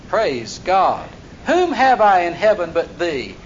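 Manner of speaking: ringing pulpit reading with hard-hit words; full-voiced sermon reading; preaching scripture. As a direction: proclaim the psalm to the congregation. Preaching the psalm aloud.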